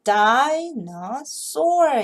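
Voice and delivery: "dinosaur" with "no" shrunk to uh; reduced middle syllable. Shown as a demonstration. Teacher showing the weak middle of "dinosaur". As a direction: stress "di" and "saur", swallow the middle. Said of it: "가운데 한 변이라도 소리를 줄여놨습니다".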